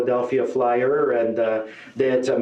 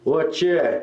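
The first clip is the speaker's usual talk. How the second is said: slow drawn-out Cree "Hey, what ya?"; slow northern Cree-accented hello; Cree greeting; 3 semitones higher, much slower than usual. Retold or imitated. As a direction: drawl the greeting slowly like a big Cree guy. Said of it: "He says".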